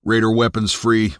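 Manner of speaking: forced through gritted teeth. Acted. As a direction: grit your teeth and bite it out. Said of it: "Through gritted teeth".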